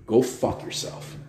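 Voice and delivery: soft, slow, half-voiced go fuck yourself; muttered insult. Real, not acted. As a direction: spit it out under the breath. Angry rant at politician.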